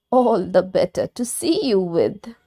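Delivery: the wolf hiding in granny's bed; sly wolf. Acted. Wolf disguised as Granny answering the girl, sly.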